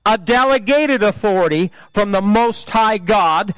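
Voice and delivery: lightly imitated movie-hero threat speech; a preacher's attempt at a measured, menacing warning; deliberate, declaimed defiance addressed to the devil; Liam Neeson. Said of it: "do it in Liam Neeson's voice".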